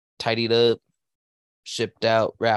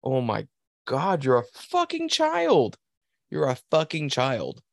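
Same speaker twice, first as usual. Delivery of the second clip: exasperated mockery; 4 semitones higher, slower than usual. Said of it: "I'm like".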